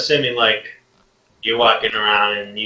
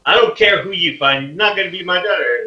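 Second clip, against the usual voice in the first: higher, fast angry refusal from the father; 7 semitones higher than usual. Acted. Father refuses the king, angry and fast. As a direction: snap at the king as the furious father.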